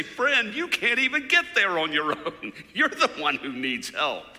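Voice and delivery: loud, laughing through the words; loud laughing jab at a helpless helper; laughing retort. Retold or imitated. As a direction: chuckle it out, loud and amused. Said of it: "He wanted to say".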